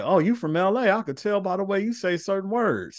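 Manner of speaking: high-pitched quoted stranger; retold guessing. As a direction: lift the pitch to quote someone recognising an accent. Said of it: "people could be like".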